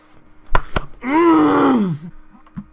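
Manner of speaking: a high strained wail of despair; anguished cry. Real, not acted. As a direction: let out a loud cry of frustration. Frustrated outburst at a goal conceded.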